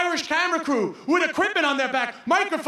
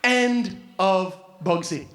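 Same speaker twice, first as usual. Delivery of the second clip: much lower and slow, deadpan; deadpan whippet; 7 semitones lower, much slower than usual. Acted. The whippet ends the rabbit, low slow deadpan. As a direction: drop it low and slow like a verdict. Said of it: "the whippet goes".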